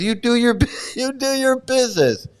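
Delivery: high, dismissive mock scolding; hammed-up irritation with a laugh; mock mad. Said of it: "Prabhupada's getting mad".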